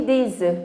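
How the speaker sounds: œufs said as a bare eu after z; silent F in plural. Shown as a demonstration. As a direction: drop the F in œufs. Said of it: "Le F sera". (des œufs avec F muet)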